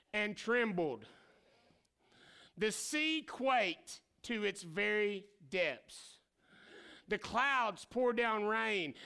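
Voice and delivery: slow, solemn reading; scripture reading. Acted. Preacher reading the psalm aloud to the congregation, slow and solemn. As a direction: read the psalm with weight.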